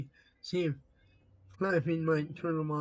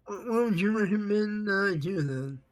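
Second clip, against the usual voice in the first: louder, higher, spelled out clearly; louder repeat; 4 semitones higher, 4 dB louder than usual. Real, not acted. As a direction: say it again so they catch it. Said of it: "I couldn't understand what you said".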